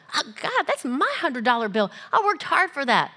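mock-grudging objection; a touch of self-pity; reluctant protest.

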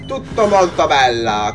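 slow, low drawn-out catchphrase; Bruno Pezzo. Retold or imitated. Player quoting a catchphrase, slow imitation. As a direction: stretch each word like a quoted catchphrase. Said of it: "come dice Bruno Pezzo".

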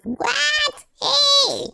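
very high squeaky surprise; startled yelp. Pretend. Surprised in game.

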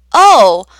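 hesitant, drawn-out greeting; unsure how to greet a stranger; a witch meeting a double, unsure; uncertain. Acted. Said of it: "said Will uncertainly".

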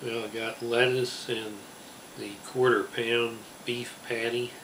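speaking between bites of burger; talking while chewing. Real, not acted. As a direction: mouth partly full of food. Seen 0: Just bit burger, cheeks still full while he talks.

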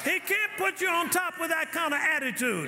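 preaching hard, pitch up and ringing; full-force preaching. Acted. Pastor preaching hard at the congregation, full force. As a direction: drive the sermon home to the church.

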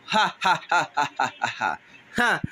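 staged villain ha-ha; separate, put-on laugh beats falling away; mocking laugh. Villain scoffs at the challengers, mocking laugh.

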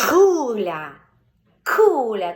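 Кухар loud, crisp К at the start; голосно, чітке К; loud clear К. Shown as a demonstration. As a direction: model Кухар loudly for the child. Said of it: "Тобто різні варіанти".

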